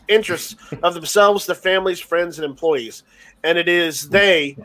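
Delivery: measured formal read-out with small stumbles; reading a statement aloud. Real, not acted. Reading friends the sheriff's quarantine statement, formal read-aloud. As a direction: read out an official statement, phrase by phrase.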